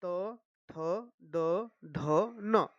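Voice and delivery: त, थ, द, ध, न sounded separately with short pauses; pronunciation demonstration. Shown as a demonstration. Teacher pronouncing the ta-group for learners, careful articulation. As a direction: recite each letter from त to न distinctly. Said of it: "वो देखते हैं एक बार उच्चारण करके".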